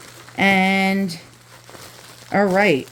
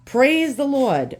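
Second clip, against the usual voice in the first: slow, high thankful praise; slow grateful praise the Lord; relieved praise; 5 semitones higher, slower than usual. Real, not acted. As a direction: drag it out in thanks. Relief item not broken.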